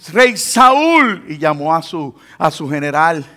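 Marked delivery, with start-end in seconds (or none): 0.1-1.2 calling out. Retold or imitated. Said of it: "y le grita".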